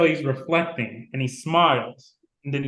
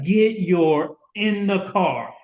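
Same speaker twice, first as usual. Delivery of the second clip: slow, hard-hitting mother's command, louder; angry order; 5 semitones higher, 4 dB louder, much slower than usual. Retold or imitated. Mother ordering her son into the car, angry slow command. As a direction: spell it out slowly like a furious mom.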